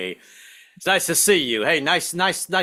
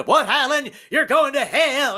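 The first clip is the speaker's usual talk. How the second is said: shocked preacher; 10 semitones higher, slower than usual. Retold or imitated. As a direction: react as if scandalised.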